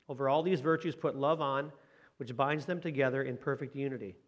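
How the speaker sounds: measured, slowed reading of scripture. Acted. Pastor reading Colossians to his congregation, measured scripture reading. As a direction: read the verse to the church with care.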